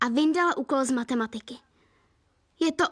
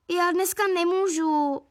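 excuse-making; 4 semitones higher than usual. Acted. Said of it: "vymlouvala se Elíza".

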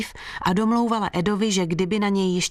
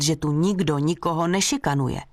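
plain reading voice

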